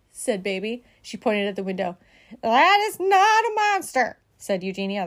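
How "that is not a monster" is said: high, slow, emphatic scolding; exasperated bossy sister; indignant correction. A narrator's reading. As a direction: correct sternly, leaning on each word. Eugenia scornfully corrects Baby.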